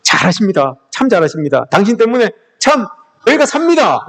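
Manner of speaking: earnest, heartfelt "잘하십니다", rising in praise at the end; sincere compliment. Shown as a demonstration. Preacher shows the congregation how to praise a neighbour sincerely. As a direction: really lift the person up. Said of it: "비꼬지 마시고요".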